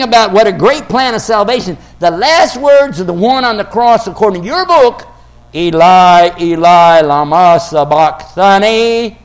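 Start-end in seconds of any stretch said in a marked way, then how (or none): 5.5-9.2 loud, anguished cry in Aramaic. Retold or imitated. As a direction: call it out like a man in torment. Quoting the cry on the cross.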